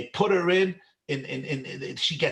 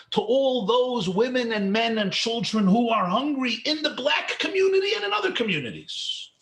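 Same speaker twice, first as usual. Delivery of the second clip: rising from urgent plea to a high cry; impassioned rabbi crying out the question; building to a shout; 5 semitones higher than usual. Retold or imitated. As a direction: lift the Rebbe's plea until it breaks into a shout. Rebbe urging her, rising climax.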